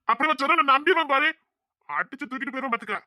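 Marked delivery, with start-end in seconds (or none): 0.1-1.3 high, louder, tearful scoff; crying disbelief. Acted. Husband sobs mockingly at the woman he thinks is his wife. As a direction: sob out the mockery.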